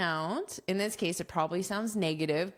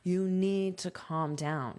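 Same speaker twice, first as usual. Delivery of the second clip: firm, flat instruction; coworker telling you off. Retold or imitated. Coworker to stressed colleague, firm calm-down order. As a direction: tell a panicking colleague to settle. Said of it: "your coworker tells you to calm down".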